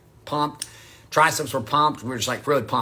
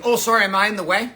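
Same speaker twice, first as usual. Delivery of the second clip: put-on light girl voice; 2 semitones higher, faster than usual. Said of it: "she said".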